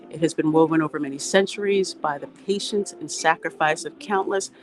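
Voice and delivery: measured, emphatic read-aloud; reading a quotation aloud. Real, not acted. Host reading Wendell Willkie's words to viewers, formal read-aloud. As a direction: read it out clearly for the viewers, weighting key words.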